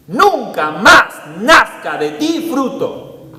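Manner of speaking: slow, loud, commanding pronouncement; solemn command. Acted. Preacher voicing Jesus's solemn curse on the fig tree.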